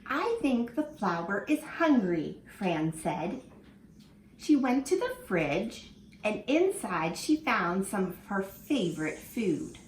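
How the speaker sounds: lively storybook reading for little ones; reading to children. Acted. Teacher reading a picture book to her class, lively and expressive. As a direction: read it like story time in class.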